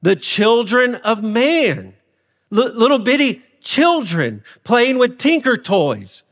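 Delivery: slow, mocking repeat; dry mocking emphasis; sarcastic. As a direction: savor the put-down slowly. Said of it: "this is more sarcasm".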